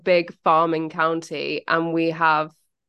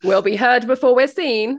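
defiant declaration; 5 semitones higher, 5 dB louder than usual. Real, not acted. Defiant joke reply.

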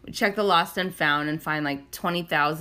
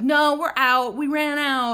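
vendor answer; 8 semitones higher, 4 dB louder, slower than usual. Retold or imitated. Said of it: "they're like".

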